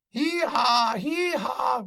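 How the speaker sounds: high braying hee-haw; donkey bray. Acted. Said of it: "roared the ass".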